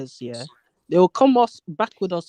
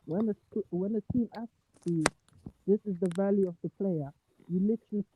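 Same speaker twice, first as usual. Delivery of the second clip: quiet and distant, like from the next room; from another room; 7 dB quieter than usual. Real, not acted. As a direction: voice far from the mic. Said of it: "you're yelling from the other room".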